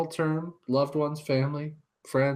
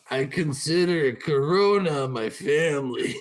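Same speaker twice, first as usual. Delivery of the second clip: put-on cranky old man. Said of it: "like a cranky old man".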